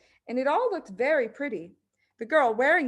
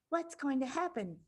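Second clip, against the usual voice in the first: whispered back; 5 semitones higher, 8 dB quieter than usual. Acted. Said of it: "Lavender whispered back".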